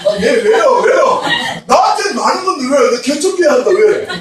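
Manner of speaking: loud, high, whiny protest with laughter; mock the youths' indignant objections; protesting crowd. Youth protesting during sermon. (설교에 반발하는 청년들, 크게 따지는 흉내)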